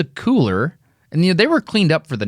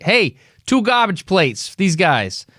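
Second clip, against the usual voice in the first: put-on slow, higher amateur New York accent that keeps drifting; wobbly New York accent; 6 semitones higher, slower than usual. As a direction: call the order to the cook in a wandering New York accent. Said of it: "Your accent keeps changing".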